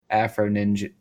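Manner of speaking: AFRO NINJA with a clear R in AFRO. Shown as a demonstration. Telling co-hosts the version they know, AFRO NINJA with the R. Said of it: "heard it with the R".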